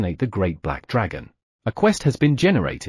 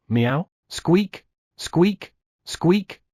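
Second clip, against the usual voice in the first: animal chorus; 6 semitones higher, much slower than usual. Acted. The cat and rabbits answering, high squeaky critter noises. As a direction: meow then high little squeaks.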